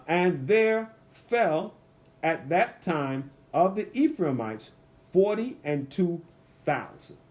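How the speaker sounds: slow, measured Bible reading with long pauses; scripture reading. A narrator's reading. Preacher reads verse six to the congregation, slow and emphatic. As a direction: read the verse aloud slowly, word by word.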